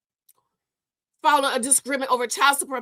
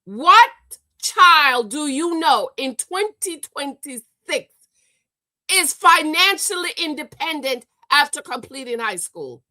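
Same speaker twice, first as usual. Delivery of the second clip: loud, drawn-out disbelief; indignant loud challenge; outraged question; 6 dB louder than usual. Real, not acted. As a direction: demand it of the whole internet, slowly.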